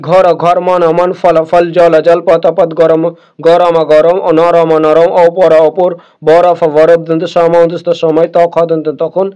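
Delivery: each word said twice, evenly, like a reading list; teacher's word drill, steady rhythm. Shown as a demonstration. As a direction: read the list aloud for students to repeat. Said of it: "এইগুলো পড়তে থাকুন".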